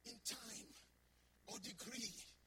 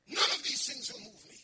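loud declaration; 8 dB louder than usual. Acted. Preacher repeats Paul's vow aloud.

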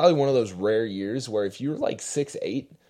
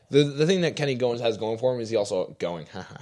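laughing. Real, not acted. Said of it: "I couldn't help myself".

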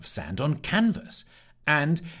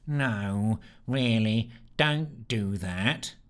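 half exclaimed; much slower than usual. Acted. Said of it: "semi-exclaimed Sneer".

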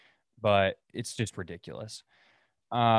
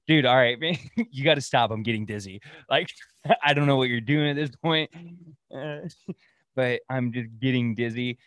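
laughing through the plea, louder at the start; dizzy customer laughing; 2 semitones higher, 3 dB louder than usual. Retold or imitated. Dizzy customer begging the barber, laughing. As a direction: beg him to stop, half laughing. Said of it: "He goes".

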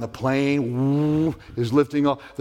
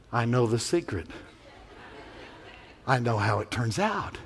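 quiet knowing; 3 semitones lower, 6 dB quieter than usual. Acted. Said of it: "knowing, calm confidence".

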